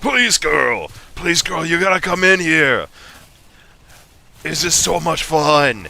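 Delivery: put-on eager voice; excited character. Shown as a demonstration. A character urging a girl to join the fun, eager. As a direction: gush like a thrilled kid.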